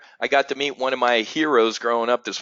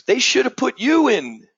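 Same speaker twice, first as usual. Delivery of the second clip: retold fan joke; 11 semitones higher, 4 dB louder than usual. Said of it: "the guy goes".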